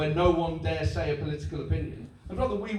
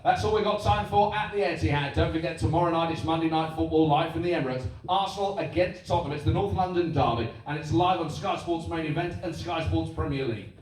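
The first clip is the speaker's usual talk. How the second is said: lightly hyped sports promo read; football voice. Shown as a demonstration. Sky presenter plugging the next match, football voice. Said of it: "It'd always be like that".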